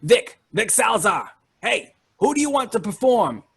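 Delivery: high, urgent call across the stage; frantic ringmaster hailing. Acted. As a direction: ringmaster calling up high to Vic. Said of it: "He says".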